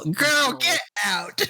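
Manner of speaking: put-on high, gushing sassy girl; valley girl voice. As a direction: squeal it like a gossiping girlfriend. Mock gushing at necklace post.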